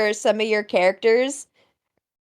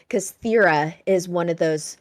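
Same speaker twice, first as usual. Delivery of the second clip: deeper, measured character voice; Thera; 6 semitones lower than usual. Shown as a demonstration. Showing how the character talks, deeper and slower. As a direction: sink low into a slower cadence. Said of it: "deeper voiced, slower cadence".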